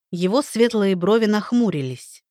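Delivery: usual speaking voice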